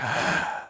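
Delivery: long, voiceless breath of reaction; mock audience gasp. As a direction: imitate a crowd's breathy reaction. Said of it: "everyone's like".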